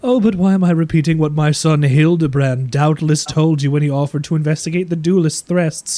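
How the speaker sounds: lightly voiced haughty aristocrat lady; a hint of a snooty noble matron; posh noble lady. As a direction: play the proud noblewoman, genteel and smug. NPC voice, game master.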